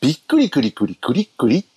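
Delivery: singsong ad jingle voice; commercial catchphrase. Retold or imitated. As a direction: sell it like a TV ad. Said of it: "なんかシーエムのフレーズ".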